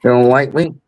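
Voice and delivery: high, mocking whine of a question; mocking impression. Doing an impression that Billy does better, mocking. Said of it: "Billy does it better".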